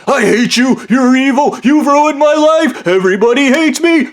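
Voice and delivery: high self-pitying wail; high-pitched mock tantrum; whiny meltdown. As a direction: whine it like a melodramatic loser. Blondie's retold whiny meltdown.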